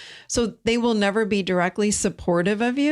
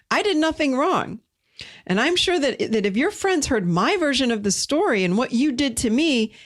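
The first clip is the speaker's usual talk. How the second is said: fast, affronted, pitch shooting higher on "I did nothing wrong"; indignant gaslighter; 4 semitones higher than usual. Acted. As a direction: play the wounded victim demanding an apology. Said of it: "they might say something like".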